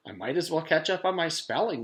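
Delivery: put-on high, light girl's voice; resigned thought. A narrator's reading. Jenny deciding to study, high and light. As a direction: shrug it off and get busy. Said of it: "she thought".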